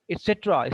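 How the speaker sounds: et CETera, weight on the start of cetera; et cetera stressed on its second syllable. Shown as a demonstration. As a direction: lean on cet in et cetera. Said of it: "Stress is on et cetera".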